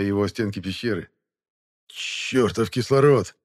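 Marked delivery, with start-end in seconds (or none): 1.9-3.3 gasping shout; breathless cry; out of breath. Acted. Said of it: "задыхаясь, выкрикнул Шамов".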